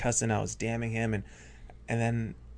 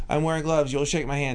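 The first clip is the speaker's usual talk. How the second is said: higher, retold voice crack; 4 semitones higher, 3 dB louder than usual. Hypnotist retells commanding Howie on stage, voice cracking. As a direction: let the voice crack upward, mimicking stage nerves. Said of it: "hear my voice crack like".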